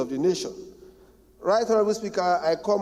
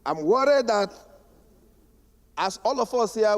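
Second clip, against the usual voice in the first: campaign voice; 3 semitones higher than usual. Real, not acted. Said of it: "Can I use my campaign voice".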